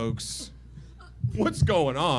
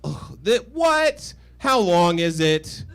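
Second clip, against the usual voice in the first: mock girlfriend outrage; 3 dB louder, slower than usual. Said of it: "And she's like".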